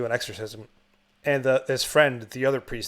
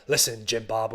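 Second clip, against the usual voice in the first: earnest war buddy; 5 semitones lower, 3 dB quieter than usual. Retold or imitated. Acting soldier to doomed best friend.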